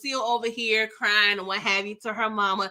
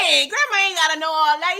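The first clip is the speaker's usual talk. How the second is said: laughing protest; 4 semitones higher, 5 dB louder than usual. Real, not acted. Laughing complaint about snitching.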